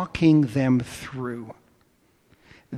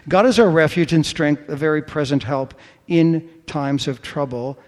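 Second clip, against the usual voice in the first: ringing proclamation; 5 dB louder than usual. Acted. Preacher proclaims the psalm to his church, ringing and bold. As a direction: lift the verse up loud and bold.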